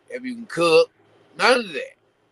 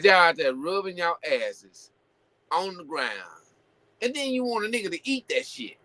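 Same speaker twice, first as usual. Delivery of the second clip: higher, blunt retelling of her scolding; quoting a singer; 6 semitones higher than usual. Retold or imitated. Host quoting a singer scolding twerkers, higher mock voice. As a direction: voice her calling out the crowd, pitched higher. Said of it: "She said".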